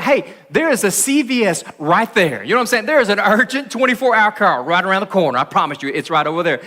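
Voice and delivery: lightly voiced pointed suggestion; mock-helpful, send her elsewhere; sarcastic father. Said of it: "he could have been like".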